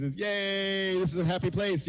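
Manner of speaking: normal talking voice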